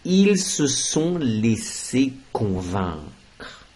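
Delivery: "ils se sont laissés convaincre" said very slowly; slow model sentence. Shown as a demonstration. Teacher presenting the example, very slowly. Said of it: "Mais on peut dire également".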